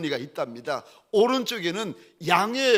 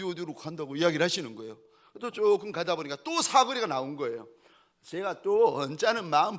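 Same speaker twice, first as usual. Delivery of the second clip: ordinary delivery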